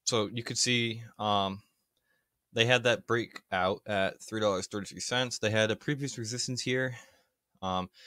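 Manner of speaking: breathless after running; out of breath. Real, not acted. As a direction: talk while catching your breath. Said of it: "sorry, I'm out of breath".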